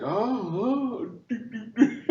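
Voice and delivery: high, silly oohs and doo-doos; mock oblivious character. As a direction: play clueless in a high, giggly voice. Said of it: "He's like".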